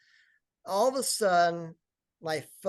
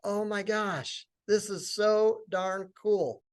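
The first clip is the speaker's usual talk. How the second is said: slow, savoured retold delight; in heaven; 3 semitones higher, slower than usual. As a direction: draw it out, reliving blissful amazement. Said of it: "like, in heaven thinking".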